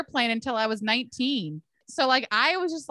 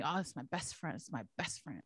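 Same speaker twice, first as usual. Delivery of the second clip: mock sweet introduction; 6 semitones lower, 15 dB quieter than usual. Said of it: "They told me".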